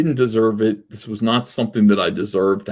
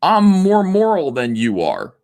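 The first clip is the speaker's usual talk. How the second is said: self-righteous activist; 3 semitones higher than usual. Retold or imitated. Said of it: "Be like".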